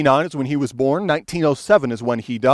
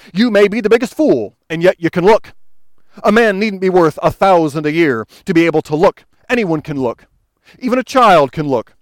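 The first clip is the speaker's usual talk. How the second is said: a touch of broad Essex country preaching, raised; broad Essex preacher; 2 semitones higher than usual. Retold or imitated. Preacher to the crowd, lightly voiced broad Essex pleading. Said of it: "he said in his broad Essex".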